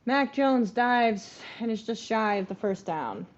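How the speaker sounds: slow, loud sportscaster call; mock TV announcer; play-by-play. Play-by-play of game.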